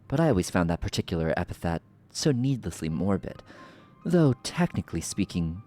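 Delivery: regal, mocking sorceress voice; theatrical sorceress villain. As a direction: purr the lines like a smug villain. Voicing villain sorceress dialogue.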